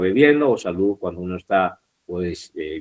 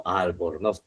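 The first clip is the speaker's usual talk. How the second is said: ALBORNOZ softer and lower, rising onto a stressed NOZ; stress on last syllable; 4 semitones lower, 7 dB quieter, slower than usual. Shown as a demonstration. Teacher repeating the better version, stress on NOZ in ALBORNOZ. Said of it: "se escucha mejor".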